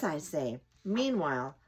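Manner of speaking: chatty squirrel lecturing the cat through the window; talkative squirrel. Acted. Squirrel talking to the cat through the window, chatty and preachy. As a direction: squirrel scolding a bored housecat.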